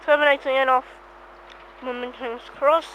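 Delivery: words muffled by food in the mouth; mouth full. Real, not acted. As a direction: still chewing while talking. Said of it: "Sorry guys, I'm eating".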